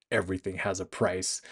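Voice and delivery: hushed menace aimed at the man on the phone; quiet threat. Retold or imitated. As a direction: hand his own words back as a threat. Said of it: "threateningly turns that back on him".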